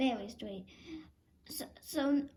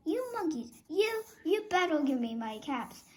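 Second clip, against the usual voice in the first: angry; 3 semitones higher than usual. Acted. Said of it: "Now he felt quite angry".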